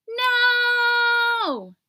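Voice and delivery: high, loud cry of disbelief; a stunned, wailing no; shocked cry. Acted. Buddy hearing his dad is on the naughty list, crying out in shock.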